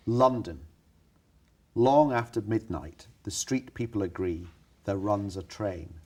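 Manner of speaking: slow, mocking dramatic reading; sarcastic reading. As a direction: read it with a sneer. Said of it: "read it in a slightly sarcastic voice".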